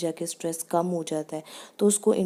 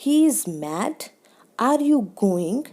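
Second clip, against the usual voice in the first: "He is mad", "Are you going" louder, pitch lifting at the end; rising question tone; 3 semitones higher, 5 dB louder, much slower than usual. Shown as a demonstration. Teacher demonstrating yes-no questions, rising tone. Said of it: "high होगी".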